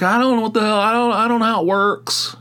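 high-pitched, exasperated retelling; flustered protest. Retold or imitated. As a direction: blurt it out high, pleading ignorance. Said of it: "I'm like".

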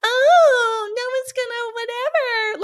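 high, loud whiny wail that fades; mock whimpering inner critic. Shown as a demonstration. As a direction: whine it like a sulky kid. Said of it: "I read it in a really whiny voice".

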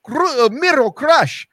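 slow, high mock seductive voice; mock sultry wife. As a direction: mimic the wife's breathy promo line. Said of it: "his wife's ... going".

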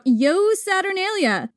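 drawn-out festive cry, rising high on the name; mock festive shout. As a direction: call it out like a reveler. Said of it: "would shout".

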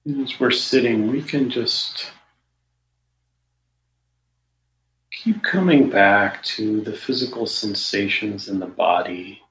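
measured meditation guidance with long pauses between phrases; guided meditation. Real, not acted. Meditation teacher settling listeners into the body, guided meditation. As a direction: guide listeners unhurriedly, leaving silence after each phrase.

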